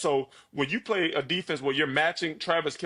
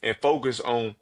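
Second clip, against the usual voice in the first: motivational speech; 2 semitones lower than usual. Pretend. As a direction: speak like a coach lifting up a friend. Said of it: "give me the best motivational speech".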